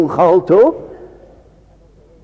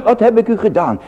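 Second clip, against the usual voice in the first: "wat heb ik u gedaan" cried out higher, stress on heb; God's pleading voice; 8 semitones higher, faster than usual. Acted. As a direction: call it out as the Lord pleading. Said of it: "De Heere gaat zelf antwoord geven". (luid en hoog uitgeroepen, klem op "heb")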